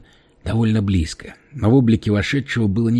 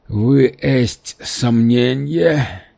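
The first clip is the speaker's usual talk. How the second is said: very slow, menacing alien question; lower menacing alien voice; 3 semitones higher, 3 dB louder, much slower than usual. Acted. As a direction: drag the threat out slowly. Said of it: "произнёс Харк более низким голосом". (низкий угрожающий голос пришельца)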